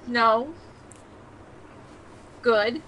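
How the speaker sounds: ordinary talk, nothing marked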